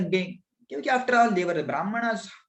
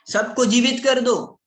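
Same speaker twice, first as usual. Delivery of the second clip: raised, louder plea; emphatic request; 7 semitones higher, 7 dB louder than usual. Acted. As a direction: call out the boon boldly. Son voicing his boon request.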